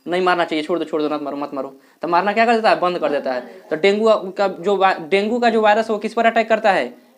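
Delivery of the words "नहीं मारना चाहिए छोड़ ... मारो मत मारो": lightly voiced white blood cell. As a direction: lightly act out a cell calling off the attack, low and easing down. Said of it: "सात दिन के बाद जब देखेगा".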